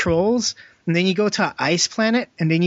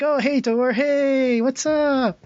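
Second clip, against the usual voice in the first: much higher, chirpy mock greeting; cheery passerby; 9 semitones higher, much slower than usual. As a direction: squeak out a breezy hello.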